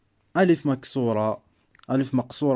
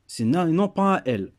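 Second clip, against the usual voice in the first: non hit hard and falling; firm correction to the class, stress on non; 4 semitones higher, faster than usual. Shown as a demonstration. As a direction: lean on non to contrast na with un L. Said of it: "Il faut faire attention à cette lettre".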